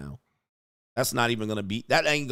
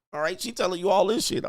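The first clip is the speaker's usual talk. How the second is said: usual speaking voice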